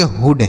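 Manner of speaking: हुड with a short oo as in "hood"; short vowel in हुड. Shown as a demonstration. Teacher giving children the correct reading, हुड with short oo. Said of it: "छोटा ऊ का उच्चारण".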